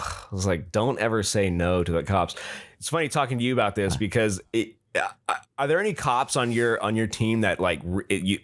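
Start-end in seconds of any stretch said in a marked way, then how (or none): 0.7-2.4 lightly voiced low cop warning; a hint of a lecturing cop; stern cop. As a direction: echo the officer's advice in a lower pitch. Repeats the cop's warning.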